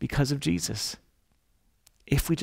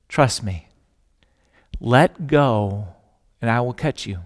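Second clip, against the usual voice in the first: voice of God; 4 semitones lower than usual. Acted. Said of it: "Voice from heaven comes down".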